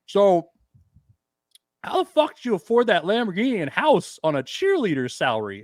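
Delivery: mouth full. Acted. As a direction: blurt it out with a mock mouthful. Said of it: "bite of steak in my mouth".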